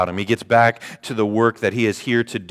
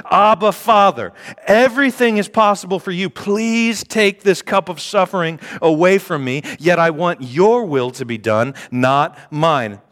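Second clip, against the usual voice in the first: raised, pleading voice; pleading prayer; 6 semitones higher than usual. Acted. Jesus begs his Father in the garden, high and pleading. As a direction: beg the Father, voice lifted high.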